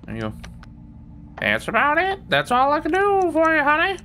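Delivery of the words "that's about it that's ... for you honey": much higher, sugary shop-lady voice; high, sing-song shopkeeper wrapping up a sale; sweet shopkeeper voice. Pretend. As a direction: play a doting shopkeeper calling you honey. Voicing shop character's line.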